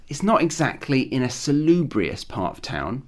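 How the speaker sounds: dry, understated sarcasm; lightly sarcastic understatement. Shown as a demonstration. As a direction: answer with a touch of sarcasm. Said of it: "use a sarcastic tone with it".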